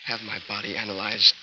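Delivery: faint, failing voice trailing off; pleading with his last breath; weak and fading. Acted. Dying husband to Gail, fading and pleading. Dying man begging for inquiry.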